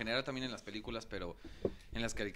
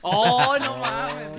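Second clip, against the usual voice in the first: surprised shout; 13 semitones higher, 16 dB louder, much slower than usual. Real, not acted. Sudden excited outburst.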